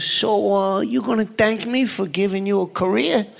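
a light take on Joe Pesci, menacing; lightly voiced tough mobster, needling; Joe Pesci impression. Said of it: "That's an incredible impression".

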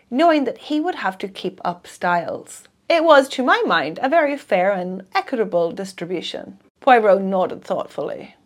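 measured audiobook reading with voiced dialogue; story narration. A narrator's reading. Reader narrating a detective novel to listeners, audiobook manner. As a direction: read the mystery to a listener, steady and clear. Reads a mystery novel aloud.

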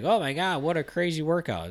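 high-pitched gushing, imitating impressed fans; mock amazement. Trainer imitating everyone gushing over an Instagram workout clip, mock amazed.

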